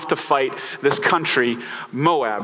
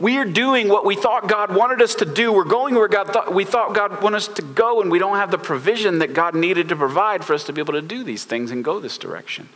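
freaking out; 5 semitones higher than usual. Retold or imitated. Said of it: "he's kind of freaking out about that".

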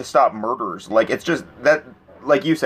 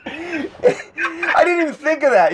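laughing; 14 semitones higher, slower than usual. Real, not acted. Cracking up at a joke.

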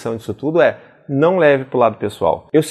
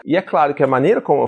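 ordinary talk, nothing marked

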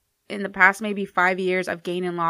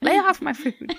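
possessive snap; 9 semitones higher, slower than usual. Pretend.

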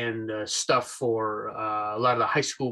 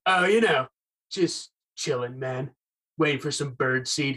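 surfer dude voice. Acted. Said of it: "a nineties surfer dude".

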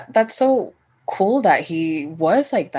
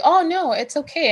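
much higher, lightly acted reassurance; imitated easy reassurance; 9 semitones higher than usual. Hookup reassuring her as she freaks out, easygoing retold voice. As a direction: wave the worry away, imitating him. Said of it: "he was just like".

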